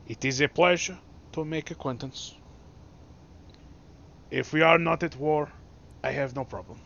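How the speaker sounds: put-on carefully enunciated English with a light Chinese accent; lightly attempted Chinese accent, each word clear; formal greeting in crisp accented English. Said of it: "says in very crisp, clear English, accented".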